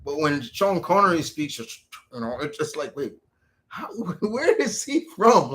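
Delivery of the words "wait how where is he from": mock bewildered. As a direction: puzzle over it in exaggerated confusion. Reacting to Connery's odd accent.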